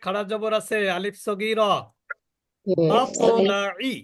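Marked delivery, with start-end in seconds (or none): 2.9-3.9 মাতলাই drawn out slowly, the ত bounced with a clear echo; slow recitation with qalqala. Shown as a demonstration. Teacher models মাতলাই for students, slow and echoing. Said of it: "ভালো করে উচ্চারণ করতে হবে।".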